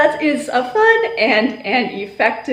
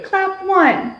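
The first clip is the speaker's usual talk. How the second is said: teacher call; 8 semitones higher than usual. Shown as a demonstration. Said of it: "and I will also do it".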